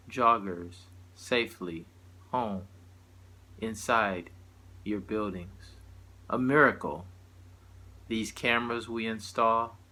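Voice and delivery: measured spoken-word delivery with long pauses between lines; poetry recital. Acted. Poet performing a satirical poem to listeners, measured recital. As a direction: recite it line by line, letting each phrase land. Reads own poem aloud.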